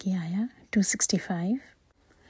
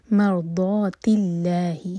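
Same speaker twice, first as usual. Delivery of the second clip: voiced, very slow tajweed recitation; slow Quran recitation; 4 dB louder, slower than usual. Shown as a demonstration. Teacher recites the verse to show the rules, slowly. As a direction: draw each syllable out carefully. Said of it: "لام جلالہ light ہوگا".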